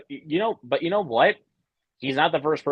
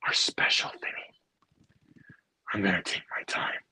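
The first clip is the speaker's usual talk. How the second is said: slow, unvoiced villain whisper; menacing whisper; 4 semitones lower, slower than usual. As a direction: whisper the threat, savoring each word. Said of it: "And here we go".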